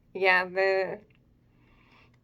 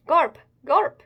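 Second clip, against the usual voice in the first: crowd cheer; 7 semitones higher, 6 dB louder than usual. Acted. Cheering townsfolk chanting for their hero, loud. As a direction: chant the name, louder and higher on the second.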